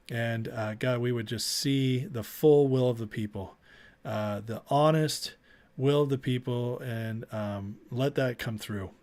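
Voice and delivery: earnest prayer to the Lord for his viewers; spoken prayer asking God to bless everyone; closing prayer. Real, not acted. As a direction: pray it out like a livestream host signing off.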